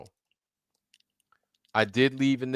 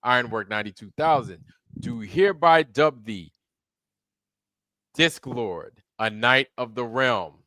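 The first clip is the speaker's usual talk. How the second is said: grand ceremonial proclamation; solemn regal knighting. Acted. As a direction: speak like a king knighting someone.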